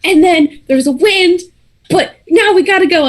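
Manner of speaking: high, gasped-out mock panic; winded, hurrying through a garbled account; out of breath. Runner relaying the morning's events, breathless. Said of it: "very out of breath".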